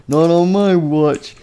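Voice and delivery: slow, high heroic declaration; mock-heroic call; heroic interjection. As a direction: stretch it out like a rescuing hero. Rescuer steps in heroically.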